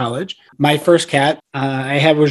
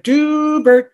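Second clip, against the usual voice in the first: high drawn-out call of a pet's name; calling the cat; 11 semitones higher than usual. Retold or imitated. Owner calling his cat to come find him, high drawn-out call. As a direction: sing the name up the stairs to the cat.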